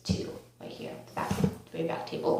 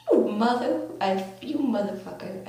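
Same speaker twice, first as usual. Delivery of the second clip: mock outraged swearing. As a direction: curse out a friend in retold outrage. Retold confrontation with rival friend.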